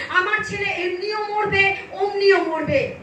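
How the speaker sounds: mother's resolve, voiced firmly; retold desperate resolve. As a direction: retell her last-hope decision at full voice. Mother's resolve, first telling. (মায়ের মরিয়া সংকল্পের জোরালো অনুকরণ)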